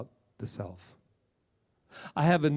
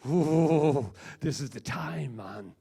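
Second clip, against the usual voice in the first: lightly imitated positive enthusiasm; excited speaker impression; 3 dB louder, slower than usual. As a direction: imitate an excited, in-your-face motivator. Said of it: "He's, like, excited, saying".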